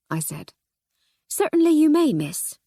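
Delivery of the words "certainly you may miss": constable. Acted.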